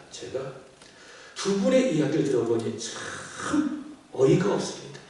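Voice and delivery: building to a loud, high punchline; mock exasperated pastor. Pastor settling the couple's quarrel, exasperated then loud punchline. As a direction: deliver the pastor's twist with glee.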